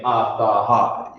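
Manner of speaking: "ah, tha, ha" said as three broken sounds; wrong split syllables. Shown as a demonstration. Teacher mocking the choppy reading. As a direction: chop "ah, tha, ha" apart. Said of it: "you're not saying".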